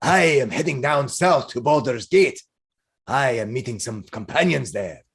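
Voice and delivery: measured character voice of a hearty traveler; jolly adventurer turning thoughtful, in role; earnest Minsk. Acted. Balding man tells the others where he is headed, earnest.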